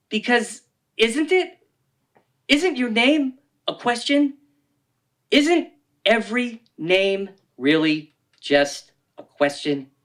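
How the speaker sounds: high, slow musing; mock philosophical wonder. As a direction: float the words as if deeply profound. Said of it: "like it's a question".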